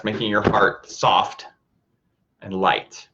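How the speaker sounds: calm, even voice with long pauses; guided meditation. Acted. Teacher guiding listeners to soften the heart, calm meditation voice. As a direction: lead them gently inward, leaving space between phrases.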